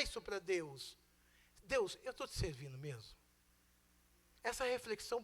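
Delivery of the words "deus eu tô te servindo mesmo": quiet prayer. Acted. Preacher voices a quiet prayer.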